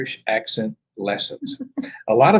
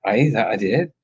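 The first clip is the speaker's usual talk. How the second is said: mock Irish accent; 5 semitones lower than usual. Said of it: "Irish accent".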